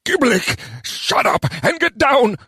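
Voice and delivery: hoarse, urgent stage whisper, drawn out. A narrator's reading. Mayor hushing his goblin adviser, whispering hoarsely. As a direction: rasp a slow, hushed order. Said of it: "the mayor whispered hoarsely".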